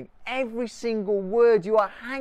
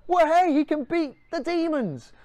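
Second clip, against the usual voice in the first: high, louder cheer from the crowd; excited onlookers; 9 semitones higher, 4 dB louder than usual. Acted. People watching Jesus beat demons, cheering excitedly. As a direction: whoop it like an amazed bystander. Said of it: "they do go".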